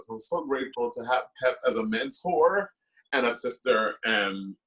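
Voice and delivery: real tears held back, thanking a mentor; tearful thanks. Real, not acted. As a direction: voice dropping low as emotion takes over. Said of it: "I'm crying".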